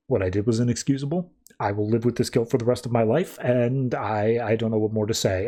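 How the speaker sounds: acted remorse, understated and low; subdued guilt. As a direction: confess it with a touch of shame. Guilty character confesses to team.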